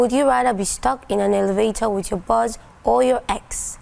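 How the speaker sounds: robot voice, mechanical and even. Pretend. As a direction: read it like an AI. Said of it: "put you on the spot with your robotic voice".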